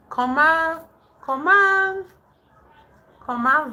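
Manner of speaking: searching aloud. Real, not acted. Struggling to recall French phrase.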